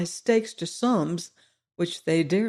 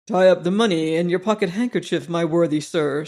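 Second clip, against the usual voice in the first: put-on old soldier. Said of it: "said the old soldier".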